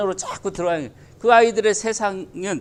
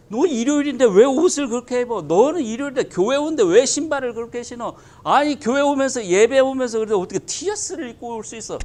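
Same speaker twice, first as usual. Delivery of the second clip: nagging churchgoer; 4 semitones higher than usual. Acted. Church members nitpicking each other.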